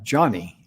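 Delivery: "Johnny" said just like the man's name; "Johnny", rhyming with Bonnie; name pronunciation. Shown as a demonstration. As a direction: say "Johnny" with an ah in the first syllable. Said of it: "her name pronounces like".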